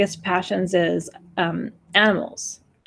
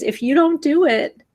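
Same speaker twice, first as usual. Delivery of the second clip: higher, tearful pleading; near tears; 5 semitones higher than usual. Real, not acted. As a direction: hold back tears while asking. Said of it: "and I'm gonna cry".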